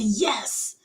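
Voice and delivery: breathy whispered answer; whispering on the phone. Retold or imitated. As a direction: whisper it, hushed. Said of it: "Why are you whispering?".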